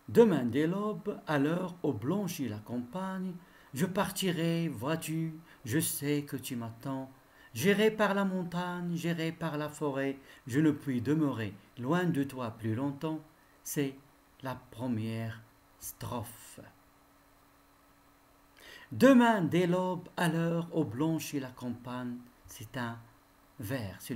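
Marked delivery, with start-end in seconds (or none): 0.1-13.2 lightly declaimed verse read-through; understated classroom poem reading; poem recitation. Acted. Rereads first stanza of poem. 18.9-22.2 declaimed verse, strong opening that settles; poem recitation. Acted. Reads out first verse.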